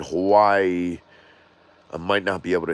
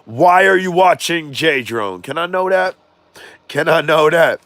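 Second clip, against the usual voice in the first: excited; 8 semitones higher, 7 dB louder than usual. Real, not acted. Asking viewers why they watch.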